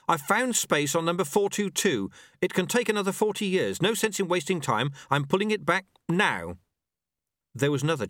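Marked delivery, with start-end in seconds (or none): 0.1-6.6 higher-pitched urgent report; apprentice calling. Acted. Apprentice reporting space on the board, urgent calling. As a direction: call back while working.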